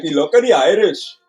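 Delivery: amateur stab at a Scottish accent; attempted Scottish accent. Shown as a demonstration. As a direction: have a go at sounding Scottish. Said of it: "I could try my Scottish accent".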